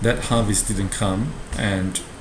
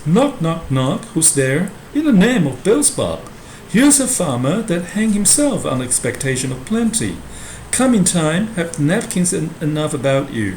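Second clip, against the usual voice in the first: loud, much higher, theatrical porter voice; drunken porter shouting; 7 semitones higher, 5 dB louder than usual. Acted. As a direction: bellow it like a rowdy gatekeeper at hell's door. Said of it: "And then he says".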